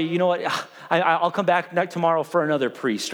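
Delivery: dry mock apology, sarcastic; sarcastic angel. Gabriel mocking Zechariah's doubt, dry and sarcastic. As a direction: play Gabriel as deadpan sarcastic.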